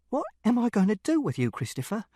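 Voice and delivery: high-pitched despairing question, dropping on the name; exasperated plea, level held back; exasperated father. A narrator's reading. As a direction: throw up the question in frustration, not shouting. Exasperated father, first asking.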